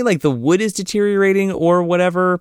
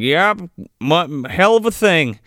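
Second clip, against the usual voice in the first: lightly voiced country fisherman; a hint of local yokel; slower than usual. Host retelling the fisherman's reply, light yokel voice. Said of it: "this fucking yokel-ass fisherman".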